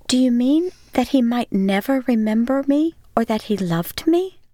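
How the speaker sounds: a wife fearing she is forgotten; anguished woman. Acted. Miriam's anguished question.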